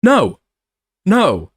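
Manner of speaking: sharp, high, loud refusal. Real, not acted. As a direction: cut the idea down hard. Outraged reaction to video.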